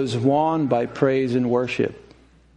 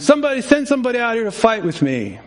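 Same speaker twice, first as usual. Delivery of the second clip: taunting giant; 7 semitones higher, faster than usual. Retold or imitated. Goliath taunting.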